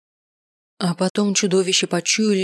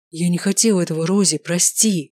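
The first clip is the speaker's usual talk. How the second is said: a touch of trembling apology. A narrator's reading. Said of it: "Голос его дрожал".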